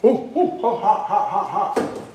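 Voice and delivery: hot food in the mouth; mouth full of hot food. Real, not acted. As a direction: talk round a too-hot bite. Tasting hot chicken, mouth burning.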